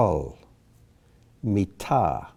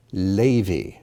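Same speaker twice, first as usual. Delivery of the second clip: Levi with the accent on LE; first-syllable stress. Shown as a demonstration. Teacher reading the word list, Levi stressed on LE. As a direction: stress the opening syllable of Levi, drop the second. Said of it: "accent on the first syllable".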